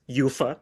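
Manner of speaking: "ufa" pronounced as one word, not spelled out. Shown as a demonstration. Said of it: "as we say it".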